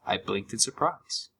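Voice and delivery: ordinary delivery, nothing marked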